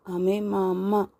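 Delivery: put-on slow, sorrow-tinged little boy; sorrowful. A narrator's reading. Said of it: "అతని గొంతులో దుఃఖం ధ్వనించింది".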